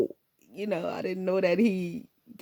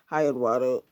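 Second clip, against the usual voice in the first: lightly lower, wary guy greeting; a hint of nervous guys saying hi; plainer, lower take; 4 semitones lower than usual. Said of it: "the guys saying".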